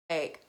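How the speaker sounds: hammed-up sob; mock Kim K cry. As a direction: imitate an ugly cry, then break into a laugh. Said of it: "it was, like, Kim K cry".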